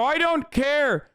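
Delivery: put-on Irish accent. Streamer defending his Irish accent, brash Irish brogue. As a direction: throw it off in a showy Irish accent. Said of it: "my Irish accent is actually".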